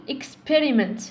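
experiment с ударением на per, слог протянут; тяни per в experiment; stress on second syllable. Shown as a demonstration. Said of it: "نطول في السيلابول الثاني".

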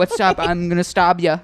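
mock British tough-guy threat. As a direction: imitate a British hard man. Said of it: "this super tough black guy".

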